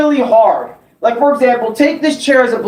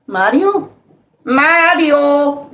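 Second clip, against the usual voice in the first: higher, timid calling out for Mario; scared Luigi calling; 5 semitones higher, much slower than usual. Retold or imitated. Luigi searching the mansion, calling higher for Mario. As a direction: call for your brother like a nervous Luigi. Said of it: "a little bit of Luigi's Mansion".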